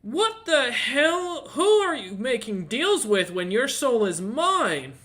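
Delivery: high, loud, outraged demon servant; indignant fiendish butler yelling; angry tiefling butler. Acted. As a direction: shriek at them like an affronted devil's butler. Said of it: "he looks at you all and goes".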